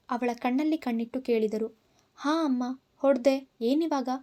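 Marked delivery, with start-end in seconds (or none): 2.2-4.1 defiant outburst. Acted. Daughter defiantly admitting to her mother she hit her, sudden outburst. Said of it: "ಒಮ್ಮೆಲೆ ಸಿಡಿದೆದ್ದಳು".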